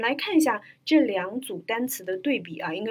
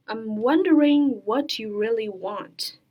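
slow sentence demo. Shown as a demonstration. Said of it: "我们来看一下".

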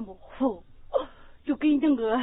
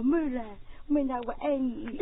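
imitating tender; 3 semitones lower, 9 dB quieter than usual. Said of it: "那天你跟那人多温柔".

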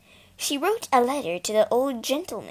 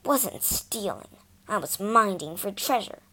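sulking. Acted. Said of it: "sulked Peter".

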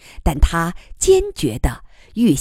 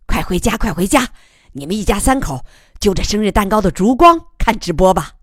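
fast, loud merry teasing; laughing group cheer; 3 semitones higher, 4 dB louder, faster than usual. Acted. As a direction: cheer them home, laughing. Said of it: "众人大笑".

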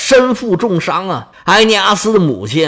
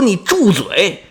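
stern rebuke; slower than usual. Acted. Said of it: "是双眉倒竖，".

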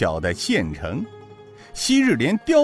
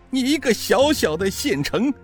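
much higher, shouted scorn; outraged taunt; 11 semitones higher than usual. A narrator's reading. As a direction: yell it in disbelief. Arrogant prisoner mocking magistrate.

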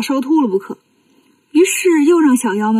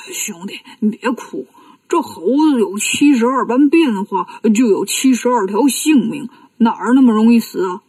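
calm him down, no hurry at all; a hint of lazy Bajie; Bajie, unbothered. Bajie voiced, unhurried.

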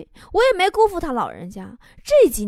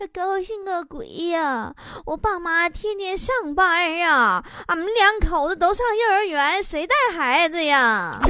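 lightly voiced little boy, drawn out; five-year-old boy; 3 semitones higher, slower than usual. Five-year-old fretting about who minds the baby, drawn-out whine. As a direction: complain slowly like a small child. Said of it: "他五岁的儿子".

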